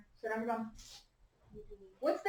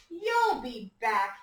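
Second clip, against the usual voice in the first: slow, louder, knowing big-sister tease; Margaret's knowing line; 4 dB louder, much slower than usual. Acted. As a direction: say it slowly, sure she'll come running back. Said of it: "said Margaret".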